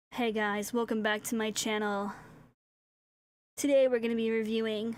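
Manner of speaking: mock boy voice, put-on. Reacting to their model, speaker tries their best boy voice. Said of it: "let me do my best boy voice".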